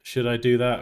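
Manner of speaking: ordinary talk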